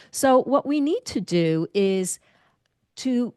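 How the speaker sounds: whispering. Shown as a demonstration. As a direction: breathe it out as a whisper. Whispered aside in a lesson.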